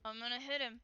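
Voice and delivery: soft threat muttered to herself; muttering under breath. Acted. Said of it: "muttering under her breath".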